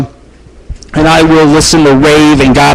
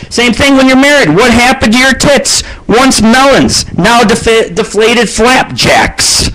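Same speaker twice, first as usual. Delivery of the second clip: pitched way up, slowing to a drawn-out finish; high mocking rant; 7 semitones higher than usual. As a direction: squeal it out in comic mock disgust, stretching the last words. Mocking wives aging, comic rant.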